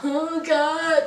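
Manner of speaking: laughing while faking nausea; half-laughing mock queasy wail; mock distress through laughter. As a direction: play Rebecca's sick act, cracking up. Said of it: "here's Rebecca".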